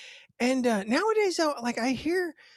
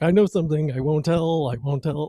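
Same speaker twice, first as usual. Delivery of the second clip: cartoon character imitation; 5 dB louder than usual. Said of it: "like the Indian from the Bugs Bunny cartoons".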